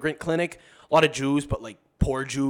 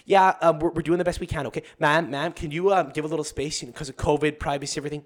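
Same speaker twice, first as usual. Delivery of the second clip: curt receptionist brushing people off; impatient front-desk brush-off; secretary's attitude. Retold or imitated. Secretary giving waiting patients attitude, curt. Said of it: "she's giving people attitude".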